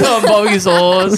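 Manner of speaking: imitating a drawl. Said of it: "Why do you say barbecue sauce like that?".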